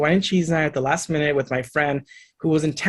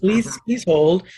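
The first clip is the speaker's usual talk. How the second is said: mock receptionist; 5 semitones higher, much slower than usual. Mock formal phone hold.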